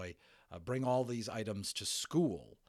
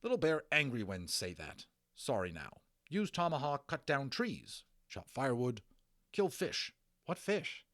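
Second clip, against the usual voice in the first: lightly voiced Little Bear; 4 semitones higher than usual. Little Bear telling Omri what he wants. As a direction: bark short demands.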